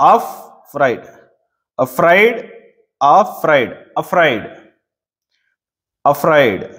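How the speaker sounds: అఫ్రైడ్ with the weight on ఫ్రైడ్, the first అ kept light; stress on the second syllable. Shown as a demonstration. Teacher showing students the stress in afraid, on the second syllable. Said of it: "ఎఫ్ దగ్గర ఒత్తి పలుకుతున్నాం".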